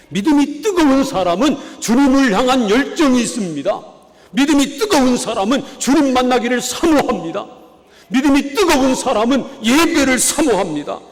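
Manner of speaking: rising fervour from the pulpit; fervent preaching. Real, not acted. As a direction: build the passion, pressing each line. Preacher exhorts fervent faith.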